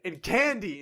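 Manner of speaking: put-on high, loud, giddy kid voice; excited little kid. Little kid dreaming big about spending twenty bucks, giddy. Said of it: "you're like".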